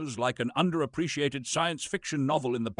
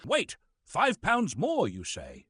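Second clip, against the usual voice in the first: higher, slow, perked-up surprise; sudden interest; 5 semitones higher, slower than usual. Acted. Actor offered five pounds more, slowly perking up higher. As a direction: perk up at the money.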